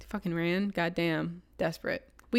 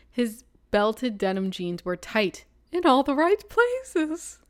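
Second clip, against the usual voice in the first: slow relish; 3 semitones higher, slower than usual. Acted. Savoring a sexy description.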